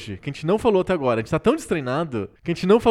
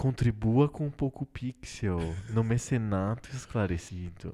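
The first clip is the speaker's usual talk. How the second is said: put-on soothing tone, soft, slow, gentle; 7 semitones lower, 11 dB quieter than usual. Joking about talking in a soft voice to ask for contributions: put-on soft voice. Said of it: "A gente podia falar com voz suave".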